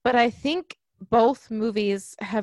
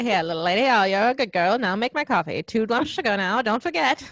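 put-on mid-Atlantic accent. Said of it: "mid-Atlantic accent".

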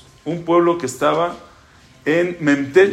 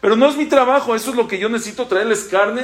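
pleading outcry; 5 semitones higher than usual. Acted. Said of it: "Dice Moshe".

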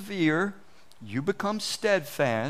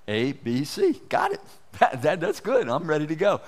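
put-on eager young learner; 3 dB louder than usual. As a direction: act out a mildly hammed-up eager beginner. Acts eager child learning letters.

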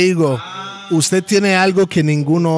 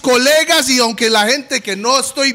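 proud boast; 5 semitones higher than usual. Real, not acted. Proud boast about representing country.

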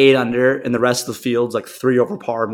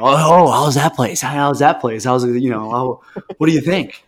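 eager logo guy. Retold or imitated. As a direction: play the nosy logo spotter. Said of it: "I'm Mister Lo".

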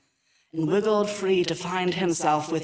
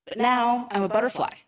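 proud; 2 semitones higher, faster than usual. Acted. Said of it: "Alex said proudly".

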